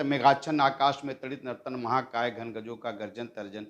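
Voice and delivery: shuddh Hindi recitation. Shown as a demonstration. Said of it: "कैसे मैंने वो भी दिया था".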